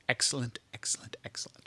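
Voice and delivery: hushed, breathy whisper. Retold or imitated. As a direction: whisper it like a secret. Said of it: "everybody that sees this short series is like".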